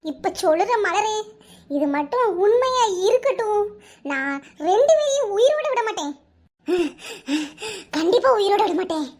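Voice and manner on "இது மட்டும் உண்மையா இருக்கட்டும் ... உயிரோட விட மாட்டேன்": furious vow. Acted. Wife vows revenge.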